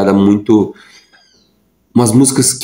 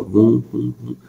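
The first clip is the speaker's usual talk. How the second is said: quiet imitated swish of a swaying leaf, vum vum vum; soft whooshing sound; 5 dB quieter, slower than usual. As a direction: breathe out a soft vum for each sway of the leaf. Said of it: "assim, ó". (imitando baixinho o balanço da folha, vum vum vum)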